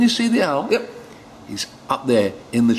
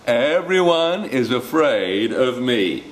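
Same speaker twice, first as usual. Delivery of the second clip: slow, slightly raised mouse voice; boastful mouse; 4 semitones higher, 4 dB louder, slower than usual. Acted. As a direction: draw out the boast.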